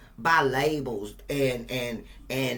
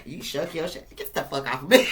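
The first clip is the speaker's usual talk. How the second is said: laughing mock shove-off; 4 dB louder than usual. Acting out kicking off crab.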